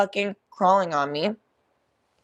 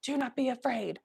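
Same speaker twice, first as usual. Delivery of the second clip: soft; 5 semitones higher, 6 dB quieter than usual. Retold or imitated.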